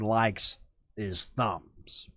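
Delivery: slow hushed whisper. Acted. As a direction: whisper it like a secret. Whispered aside about YouTube god.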